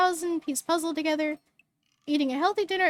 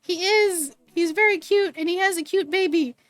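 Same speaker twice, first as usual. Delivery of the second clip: excited gush; 2 semitones higher, 5 dB louder than usual. Real, not acted. Excited about favorite game character.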